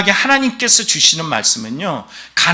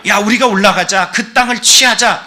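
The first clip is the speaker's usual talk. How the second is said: higher, louder mock rallying cry; 4 semitones higher, 4 dB louder than usual. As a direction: urge the people onward, pitch climbing. Quoting Caleb and Joshua rallying people. (백성을 독려하듯 높고 힘차게)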